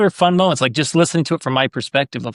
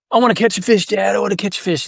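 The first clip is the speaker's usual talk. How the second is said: put-on higher, a light kid whine; imitating eager child; 6 semitones higher than usual. A dad voicing his five-year-old begging to fish, light kid voice. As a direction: beg like a little kid.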